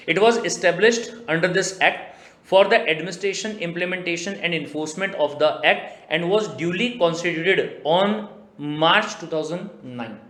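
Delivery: slow, measured reading of the act text; deliberate legal dictation. Acted. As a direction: read it out word by word like a statute.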